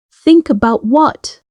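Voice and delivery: sharp high angry shout. A narrator's reading. Father shouting down the phone at daughter, angry. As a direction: shout it at her in anger. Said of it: "he shouted".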